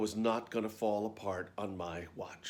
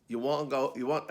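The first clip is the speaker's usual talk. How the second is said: rough attempt at a Scottish accent; terrible Scottish accent; 3 semitones higher, 3 dB louder than usual. Scottish dresser to the new lead, clumsy Scottish accent. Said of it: "I do a terrible Scottish accent".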